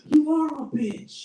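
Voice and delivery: slow, loud, word by word; slow accusation. Retold or imitated. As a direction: spell out every word to judge her. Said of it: "I was like".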